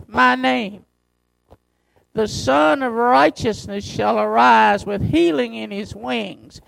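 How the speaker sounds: slow, measured scripture reading from the pulpit; preacher reads Malachi to the congregation, slow and solemn. Acted.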